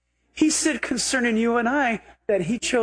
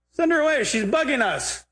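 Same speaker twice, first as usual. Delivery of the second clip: mock whiny complaint; 5 semitones higher than usual. Repeats disciples' complaint mockingly.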